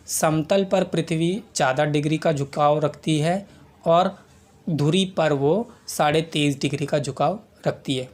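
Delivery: समतल और धुरी पर ज़ोर; समतल और धुरी शब्दों को दबाकर बोलो; stress on समतल and धुरी. Shown as a demonstration. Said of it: "ये देखो दो शब्द पे जोर दे रहा हूँ मैं". (शब्दों पर ज़ोर देकर समझाना)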